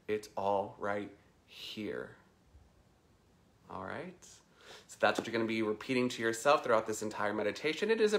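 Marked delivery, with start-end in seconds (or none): 0.1-2.2 slow, softer mantra landing on "here"; "here" set apart at the end; stress on here. Shown as a demonstration. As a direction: pause before "here" and let it stretch. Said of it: "emphasize the different words".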